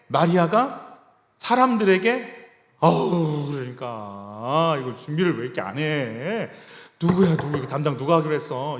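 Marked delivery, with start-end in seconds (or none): 2.8-8.8 complaining scold. Pretend. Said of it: "이런 말 안 했어요".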